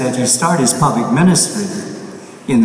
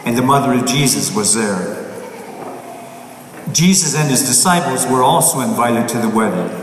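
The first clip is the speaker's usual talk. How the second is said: measured, solemn scripture reading; gospel reading. Acted. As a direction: proclaim it from the pulpit. Priest reads the Gospel aloud.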